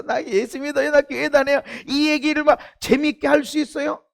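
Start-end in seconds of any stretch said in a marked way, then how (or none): 0.0-1.6 excited. Shown as a demonstration. Preacher showing how an excited believer says it. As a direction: say it like you're thrilled to tell. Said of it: "막 흥분해서".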